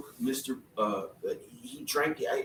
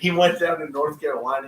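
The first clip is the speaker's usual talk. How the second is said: laughing; 2 semitones higher, 4 dB louder than usual. Real, not acted. Repeats it while laughing.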